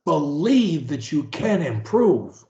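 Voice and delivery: slow phrase to repeat; slow dictation. Shown as a demonstration. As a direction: dictate it slowly. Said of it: "say after me".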